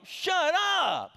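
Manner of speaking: high, loud, stretched-out squeal of delight; Kennedy-style shut up. Retold or imitated. Preacher imitating a staffer's delighted reaction to big news. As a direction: squeal it in disbelief like a thrilled young woman. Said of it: "she said it in Kennedy style".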